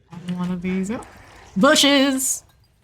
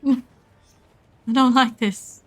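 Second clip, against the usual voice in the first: laughing; 5 semitones higher, 4 dB louder, much slower than usual. Real, not acted. Laughing nervous chase.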